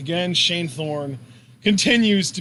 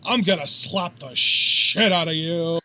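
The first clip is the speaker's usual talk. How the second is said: menacing threat; 2 semitones lower, slower than usual. Pretend. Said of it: "that's pretty much Shane Thorne's energy".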